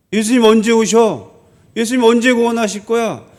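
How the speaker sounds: insistent, taunting questions; imitated mockery. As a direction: needle the believers as a scoffer would. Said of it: "라고 조롱하는 거예요".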